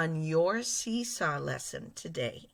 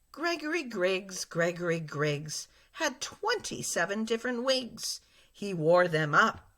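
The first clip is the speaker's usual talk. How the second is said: lively, louder, pitch going up and down; expressive reading; 3 semitones higher, 4 dB louder than usual. Shown as a demonstration. Teacher showing kids a fluent, expressive reading. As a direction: read it like you're talking, full of expression. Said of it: "I'm going to read it with pitch, with expression".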